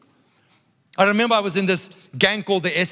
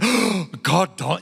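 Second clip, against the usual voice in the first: mock shock; much slower than usual.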